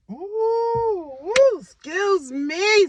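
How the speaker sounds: high, slow, dainty princess voice; cartoon princess. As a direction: squeal it like a storybook princess. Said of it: "said the princess".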